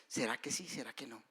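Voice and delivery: soft, fading inner question; hushed doubt. Retold or imitated. Preacher voicing a believer's doubt, hushed and fading. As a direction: let the doubt trail away to almost nothing.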